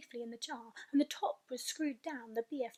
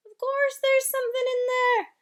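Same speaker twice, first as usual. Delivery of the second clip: emphatic giant; 13 semitones higher, 12 dB louder than usual. Acted. BFG emphatic reply.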